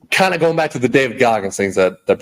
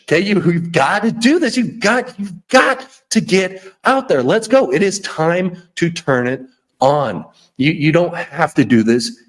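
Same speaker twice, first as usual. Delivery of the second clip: alter ego pep talk; 3 semitones higher than usual. Retold or imitated. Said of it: "Your alter ego, that's the one".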